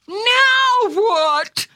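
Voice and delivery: high, helpless cry; distressed wondering. A narrator's reading. Newly changed dog wondering what next, distressed. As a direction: ask it in high-pitched dismay. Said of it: "he wondered".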